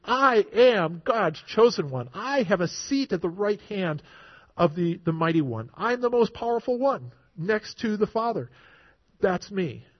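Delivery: firm, emphatic claim to authority; bold declaration. Retold or imitated. Preacher voicing Jesus before his accusers, boldly declaring. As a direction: state who you are with full conviction. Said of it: "Boldly declaring".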